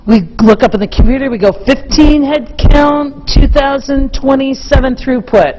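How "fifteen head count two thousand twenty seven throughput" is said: slow, matter-of-fact report of numbers; no emotion. Retold or imitated. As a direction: read the figures like a calm machine. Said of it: "No emotion, no nothing".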